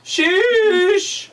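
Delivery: high, loud exclamation of disbelief; sheesh. Real, not acted. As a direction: blurt it out, stunned. Exclamation at chat.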